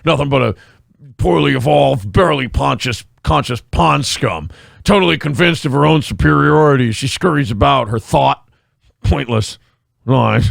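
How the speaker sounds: low disdainful bug speech; creepy alien voice. Pretend. Men in Black bug quote.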